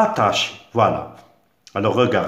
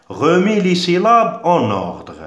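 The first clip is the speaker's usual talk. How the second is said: higher and louder, calling out the instruction; announcing the task; 8 semitones higher, 5 dB louder than usual. Shown as a demonstration. Teacher to pupils naming the seventh exercise, loud announcement. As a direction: announce it to the whole class. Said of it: "septièmement".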